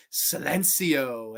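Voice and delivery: slow, drawn-out quotation; imitated film line. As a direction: stretch it out like a stage announcement. Quoting the club scene's word.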